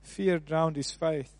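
quiet, slow, weighty statement; solemn slow line. Acted. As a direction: let it sink in slowly. Solemn summary after pause.

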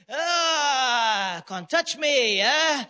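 drawn-out mock jeer; cocky taunt. Rebel teases lion behind the fence, cocky taunt. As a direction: play a show-off jeering from safety. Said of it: "he's so cocky".

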